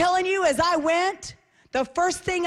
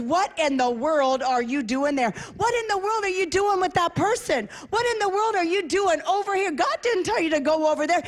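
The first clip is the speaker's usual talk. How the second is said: raised, insistent rebuke, question after question; scolding; 4 semitones higher than usual. Acted. God scolding a believer who took a detour, insistent rebuke. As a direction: take them to task, pressing each question.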